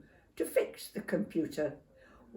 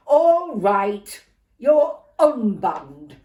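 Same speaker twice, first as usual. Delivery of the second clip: much louder slow reluctant concession; grudging growl; 2 semitones higher, 14 dB louder, much slower than usual. Acted. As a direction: give in with bad grace. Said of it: "said Dad, scowling".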